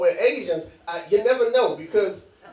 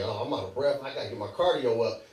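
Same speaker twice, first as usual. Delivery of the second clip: quiet muttering; 9 semitones lower, 9 dB quieter than usual. Retold or imitated. Inner thought while out of breath.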